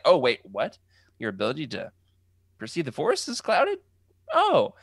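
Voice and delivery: feigned surprise, pitch jumping way up at the end; hammed-up fake surprise; mock innocent Palpatine. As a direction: play innocent, squeak the last oh. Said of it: "pretending like that's, he's not excited".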